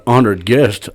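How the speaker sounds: slow, pompous "honored guest"; mock-grand. Real, not acted. Guest describing himself to the podcast hosts, mock-pompous. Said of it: "the way he said it".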